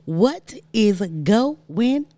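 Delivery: hyped YouTuber intro; vlogger greeting. Acted.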